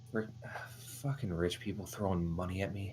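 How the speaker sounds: muttering under the breath. Voicing a disgruntled character catching a thrown coin: muttering under his breath. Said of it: "you hear under his breath".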